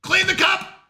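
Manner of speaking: high bright call to customers; cheery shopkeeper call. Acted. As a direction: sing out to the customer. Calling out to game customers.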